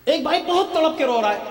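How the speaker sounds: high, pressing preacher's tone; urgent high-pitched statement; heightened emphasis. Real, not acted. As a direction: lift the whole line high, stressing "بہت". Contrasts two brothers, weeping and not.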